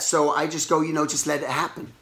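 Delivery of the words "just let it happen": calming self-talk. Retold or imitated. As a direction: talk yourself down quietly. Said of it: "it just calmed everything down".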